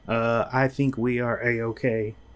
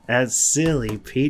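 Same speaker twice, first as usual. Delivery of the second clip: laughing disbelief; 6 semitones higher, 3 dB louder than usual. Acted. Engineer laughs at odd question.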